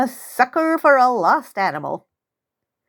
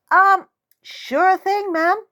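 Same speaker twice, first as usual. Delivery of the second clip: uneasy; 11 semitones higher, slower than usual. Acted. Uneasy girl answering.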